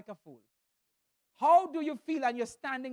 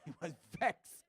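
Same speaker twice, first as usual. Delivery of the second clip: put-on West Indian accent; 4 semitones lower than usual. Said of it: "He was a West Indian".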